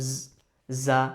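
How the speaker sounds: "জা" starting with a buzzing z; cicada-like z. Shown as a demonstration. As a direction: buzz the z of "জা" like a cicada. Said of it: "জিজি পোকার মতো একটা sound". ("জা"-র জ ঝিঁঝি পোকার মতো)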